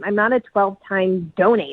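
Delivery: mock-humble sarcasm; sarcastic. Real, not acted. Woman claiming she falls short of a frequent donor, sarcastic. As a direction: put yourself down with sarcastic modesty. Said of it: "I get you're being sarcastic".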